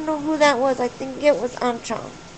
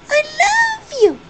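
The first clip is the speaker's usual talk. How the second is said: loud, high, drawn-out parrot squawk; parrot impression; 8 dB louder, slower than usual. Owner copying Polly the parrot from a video, parrot impression. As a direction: squawk it slowly like a talking parrot. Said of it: "And Polly goes".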